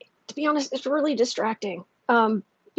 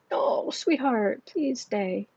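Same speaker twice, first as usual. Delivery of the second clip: tender plea; 3 dB quieter, much slower than usual. Real, not acted. Pleading with the cat.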